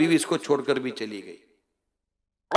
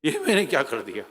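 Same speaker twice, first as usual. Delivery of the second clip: anguished cry of remorse; 7 semitones higher, 3 dB louder than usual. Acted. Son cries out on finding his mother begging, anguished. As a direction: voice rising high and loud in anguish.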